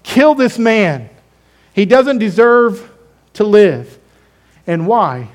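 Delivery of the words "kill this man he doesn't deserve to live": slow, louder mob cry; preacher voicing the shouting crowd; mock mob yell. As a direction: call it out like the angry crowd. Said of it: "they were yelling".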